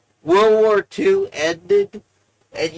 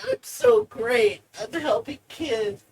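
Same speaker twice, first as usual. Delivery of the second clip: mock smug; 3 semitones higher than usual. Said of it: "It wasn't like".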